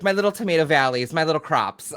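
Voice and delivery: quoting a player's character doting on crops, lightly voiced; doting farmer voice. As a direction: coo over the crops like a proud farmer.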